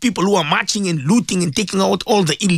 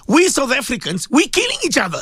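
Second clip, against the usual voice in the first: raised pitch, pleading with the nation; rising passion, pressing each phrase home; impassioned plea; 9 semitones higher than usual. Real, not acted. Radio host pleading with listeners about violence, impassioned.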